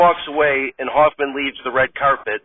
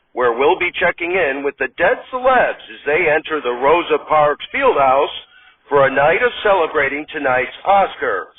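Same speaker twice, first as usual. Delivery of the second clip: red carpet host; 3 semitones higher than usual. Acted. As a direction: greet the audience like a cheesy awards show host. Host reads the red carpet intro.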